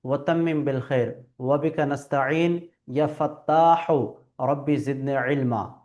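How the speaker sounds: dua recitation. Shown as a demonstration. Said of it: "তারপরে একটি দোয়া আছে".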